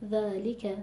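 ذالک evenly measured with complete li; relaxed, unexaggerated ذالک with full vowels; natural word weight. Shown as a demonstration. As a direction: let ذالک flow without stressing the lām. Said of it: "خیلی طبیعی".

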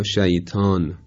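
plain light T in «شیطان», like شیتان; ط مثل ت. Shown as a demonstration. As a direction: slowly say «شیطان» with a thin ت. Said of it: "با ته دو نقطه به عنوان مثال بخوایم تلفظ کنیم". («شیطان» با تای نازک دو نقطه)

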